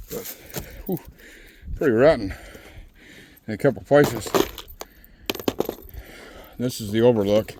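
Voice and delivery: panting between words after the climb; winded, short breaths. Real, not acted. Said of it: "let me get my breath there".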